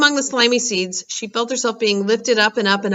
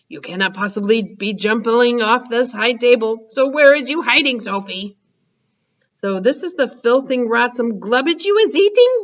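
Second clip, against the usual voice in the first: giant Blood Bottler; 3 semitones higher than usual. Acted. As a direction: play the mean giant.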